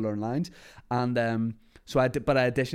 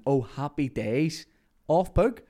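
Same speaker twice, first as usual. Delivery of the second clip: naive delight; 3 semitones higher, 3 dB louder than usual. Retold or imitated. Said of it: "And I went".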